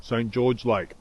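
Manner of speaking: talking with a mouthful of food; mouth full. Real, not acted. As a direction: say it round a bite of olives. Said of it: "I'm talking with my mouth full".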